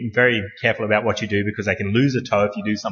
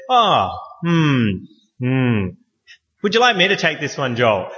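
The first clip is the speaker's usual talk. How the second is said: calm colleague. Retold or imitated. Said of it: "and said".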